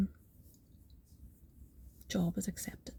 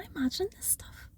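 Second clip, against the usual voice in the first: hushed inner thought; 10 semitones higher, 6 dB quieter, faster than usual. Retold or imitated. Doubting herself in her head.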